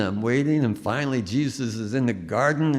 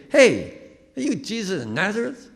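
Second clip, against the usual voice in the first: casual Bronx; 11 semitones higher, 4 dB louder than usual. Retold or imitated. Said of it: "be Bronx".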